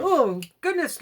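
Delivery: startled exclamation; overwhelmed. Retold or imitated. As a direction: burst out in awe. Overwhelmed reaction.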